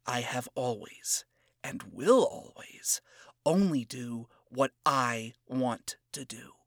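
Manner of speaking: a hint of cocky scorn, hushed; condescending and cocky. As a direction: talk down to him quietly. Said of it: "spoke in a condescending and cocky tone".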